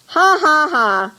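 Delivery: mock crowd laugh, high then dropping; read-out laugh. A narrator's reading. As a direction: voice a spelt-out "ha, ha, ha". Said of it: "The crowd laughed".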